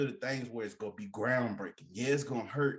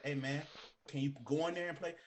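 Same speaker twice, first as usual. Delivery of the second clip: polite ask; 4 dB quieter than usual. Retold or imitated. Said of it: "you coulda said".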